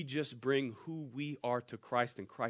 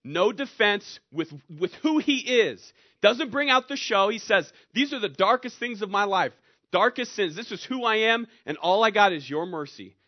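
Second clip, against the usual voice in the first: loud, raised-pitch preacher delivery; impassioned preaching; 7 semitones higher, 9 dB louder than usual. Acted. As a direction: drive each phrase home loudly. Preaching at full force.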